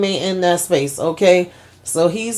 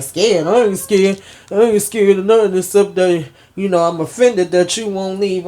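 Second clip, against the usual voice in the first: higher, louder, defiant retort; indignant scoff; 4 semitones higher, 3 dB louder than usual. Retold or imitated. Kareem scoffing to Richard that he's not scared. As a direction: brush off the idea of fear with scorn.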